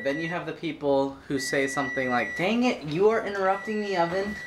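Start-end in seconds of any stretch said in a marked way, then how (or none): 2.4-4.3 mock annoyed. Mock annoyed reply quoted.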